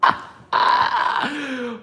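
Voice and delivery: high, loud real laugh; big high-pitched laughing fit; loud burst of laughter. Real, not acted. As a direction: burst out laughing at full volume.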